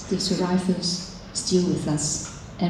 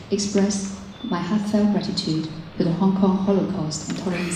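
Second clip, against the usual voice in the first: podium speech. Acted. Formal ceremony address.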